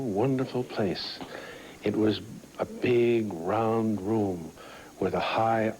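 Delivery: storybook reading voice, gently paced; reading to children. A narrator's reading. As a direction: read it aloud like a bedtime story.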